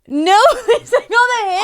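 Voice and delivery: high, loud incredulous echo; can't believe what she's hearing; shocked disbelief. Real, not acted.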